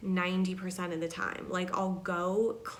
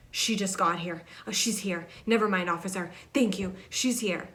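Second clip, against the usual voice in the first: frantic mother; 4 dB louder than usual. Retold or imitated. Voices frantic mother on police phone.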